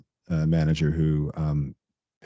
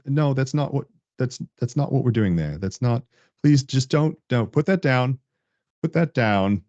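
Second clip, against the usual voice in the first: pitched up, pleading mock protest; exasperated engineer; 7 semitones higher than usual. Engineer pleading with the meddling manager, mock exasperated. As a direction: beg the boss to put it down, half-joking. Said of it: "they come in and like".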